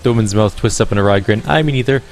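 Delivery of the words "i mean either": put-on Irish accent, pitched up and sing-song; bright-toned Irish accent, musical lilt. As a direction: play her as a lyrical Irish gamer woman. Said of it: "that's the voice I chose for her".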